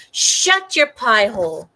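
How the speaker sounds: loud slow scolding; slow, firm, fed-up; annoyed shut up. Real, not acted. Telling official to shut up.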